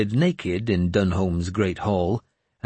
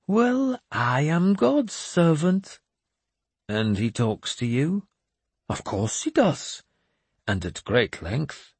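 put-on high, slow, grandly pious old madman; a cracked holy man delivering God's message; raised, slow prophet voice; mad bishop voice; 7 semitones higher, slower than usual. Jeremias explains God talks.

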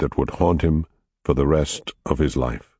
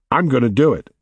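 excited; 8 semitones higher, faster than usual. Acted. Jake daring, excited.

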